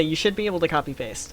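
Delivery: emphasis on "should", the rest quick; stress on SHOULD. Real, not acted. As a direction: lean on the word "should". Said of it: "Emphasis on the word should".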